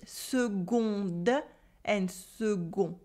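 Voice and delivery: seconde and second with a G sound, not a K. Shown as a demonstration. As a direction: say seconde with a soft G. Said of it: "we say seconde with a G sound".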